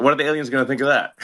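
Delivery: amused, laughing through the question. Real, not acted. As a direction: chuckle while asking it. Joking about lame alien civilizations.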